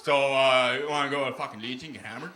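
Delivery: casual small-town Northern Ontario voice; Northern Ontario accent. Acted. Local invites a pal to the Legion, Northern Ontario accent. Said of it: "I'm from Northern Ontario. ... worst accent".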